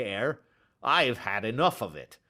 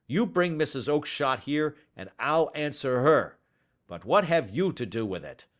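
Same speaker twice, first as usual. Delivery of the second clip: furious, much higher and louder; angry shouting; 6 semitones higher, 5 dB louder than usual. Acted. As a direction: bellow at the pestering little man. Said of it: "he shouted".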